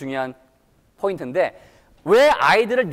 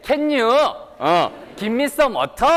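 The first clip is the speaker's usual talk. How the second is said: slow, careful Korean-style English with drawn-out endings; Korean-accented English; 5 semitones higher, much slower than usual. Shown as a demonstration. Teacher showing how Koreans say it, slow Korean accent. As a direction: spell out each syllable like a careful Korean learner. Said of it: "한국 분들 어떻게 주로 발음하시나요?".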